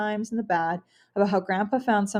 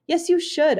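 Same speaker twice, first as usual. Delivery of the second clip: imagined scream; 8 semitones higher, 4 dB louder than usual. Retold or imitated. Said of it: "I want to scream".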